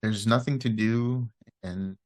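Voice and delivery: unhurried meditation guidance with long pauses; guided meditation. Real, not acted. Teacher guiding listeners through loving-kindness meditation, calm and unhurried. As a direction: ease listeners into relaxing, leaving space after each phrase.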